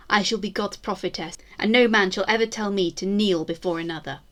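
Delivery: a proud Tudor queen vowing vengeance, grand and measured; defiant queen's proclamation. Acted. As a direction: declaim it like a queen swearing she shall not fall. Queen's defiant proclamation caption read.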